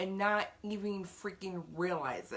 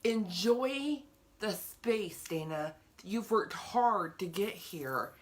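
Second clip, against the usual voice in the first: gentle self-encouragement; slower than usual. Acted.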